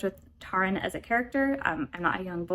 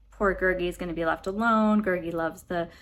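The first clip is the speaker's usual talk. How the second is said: lightly voiced Smeagol-like creature; a hint of a self-pitying little creature; Gurgi. Reviewer showing how the pitiful creature talks, lightly imitated. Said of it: "he talks like that".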